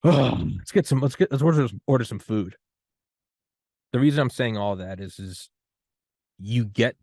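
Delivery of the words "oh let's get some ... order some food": cheerful relief. Retold or imitated. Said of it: "you're like".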